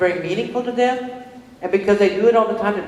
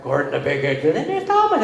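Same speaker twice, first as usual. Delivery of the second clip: imitated British accent. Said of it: "he could do a British accent".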